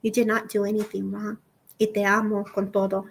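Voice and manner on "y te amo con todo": father's words relayed. Retold or imitated. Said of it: "he says".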